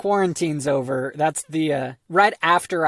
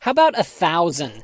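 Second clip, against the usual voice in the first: infomercial; 5 dB louder than usual. Acted. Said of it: "in the style of an infomercial".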